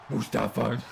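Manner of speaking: real giggle through "Mustafa"; laughing. Real, not acted. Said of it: "Sorry, I can't help it".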